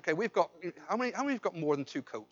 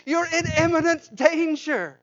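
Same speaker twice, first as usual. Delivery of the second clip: urgent warning; 9 semitones higher, 8 dB louder, slower than usual. Acted. Warning the boy at the pit.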